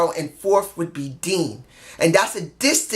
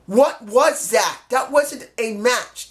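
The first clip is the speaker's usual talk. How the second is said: slow disbelief; 4 semitones higher, slower than usual. Real, not acted. Continues disbelief, slowly.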